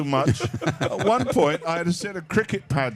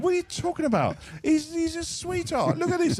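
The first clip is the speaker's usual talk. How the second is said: higher, doting mock coo; cooing family; 10 semitones higher than usual. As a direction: coo over the sweetheart bird. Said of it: "they're all going".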